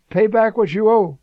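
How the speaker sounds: a hammed-up threat to a debtor; mock demand. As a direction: choke the words out like a bully. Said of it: "he said".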